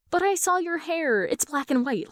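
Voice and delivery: put-on high eager child's voice; little girl voice. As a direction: insist like a curious kid. Young girl insists.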